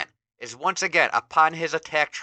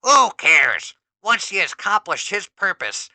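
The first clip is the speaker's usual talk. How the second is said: louder, higher dismissive line into long cackle; Skeletor cackling; 5 semitones higher, 8 dB louder than usual. Acted. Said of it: "Skeletor cackles continuously".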